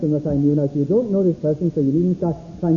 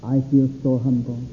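mock pious prayer; 5 semitones lower, 5 dB quieter than usual. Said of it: "and say".

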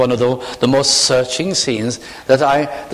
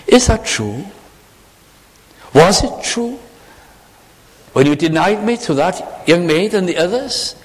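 higher, insistent testing questions; searching challenge; 6 semitones higher than usual. Retold or imitated. Jesus testing Peter, higher and insistent. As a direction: press him, is it true.

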